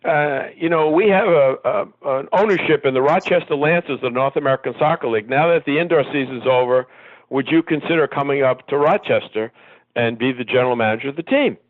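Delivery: high, brash New York boss voice; New York accent. Retold or imitated. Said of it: "in his New York accent".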